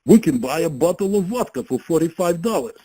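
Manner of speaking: put-on a light, playful Russian accent. Friend balking at the price, in a mock Russian accent. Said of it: "Maybe I should speak with Russian accent".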